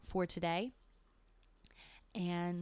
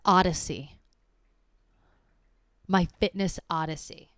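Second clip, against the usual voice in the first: grand proclamation; 8 dB louder than usual. Real, not acted. Proclaiming new word.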